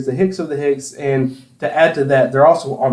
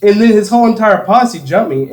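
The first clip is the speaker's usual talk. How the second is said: laughing; 6 semitones higher, 4 dB louder than usual. Real, not acted. Punchline of the licking story.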